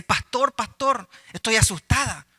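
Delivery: retold fretful plea; mock frightened. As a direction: call on the pastor in mild alarm. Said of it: "la misma hermana viene y le dice".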